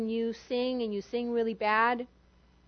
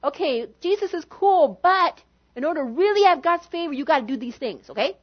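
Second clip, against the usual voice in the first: higher, louder slick persuader; mock false teacher; 4 semitones higher, 4 dB louder than usual. An intruder confusing new believers, slick and pushy. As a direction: sell the extra rules smoothly. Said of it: "confuses them with".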